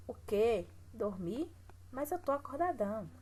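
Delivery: "O quê? Dormir?" with rising disbelief, then a protesting "Mas eu tô acordadão"; indignant disbelief. Shown as a demonstration. Teacher rereads the comic line as a protest, indignant. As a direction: read it like a kid outraged at being sent to bed. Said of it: "Observe a pontuação".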